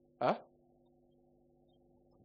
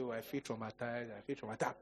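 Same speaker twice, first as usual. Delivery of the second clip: fake trauma; 3 semitones lower, 9 dB quieter than usual. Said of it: "Then I'll just say".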